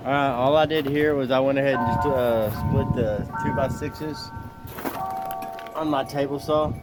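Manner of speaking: slightly slurred words, whistling s sounds; denture slur. Real, not acted. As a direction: talk through new dentures with a faint whistle. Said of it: "why I'm slurring and why I whistle when I talk".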